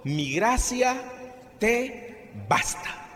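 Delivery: slow solemn quote. Retold or imitated. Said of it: "Y el Señor me respondió".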